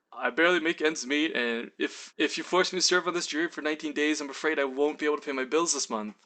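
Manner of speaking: mildly pitiful plea; puppy-dog pleading. Retold or imitated. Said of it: "I put on, like, my puppy dog eyes".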